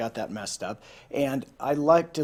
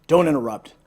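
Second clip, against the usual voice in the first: grumbling; 5 dB louder, faster than usual. Acted. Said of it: "Umbles grumbled".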